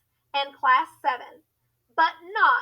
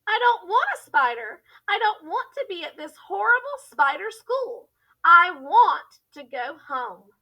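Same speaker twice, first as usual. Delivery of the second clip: put-on high, raised voice of a frightened girl; scared scream; 4 semitones higher, 5 dB louder than usual. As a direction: panic rising, ending loud. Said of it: "Kate screamed".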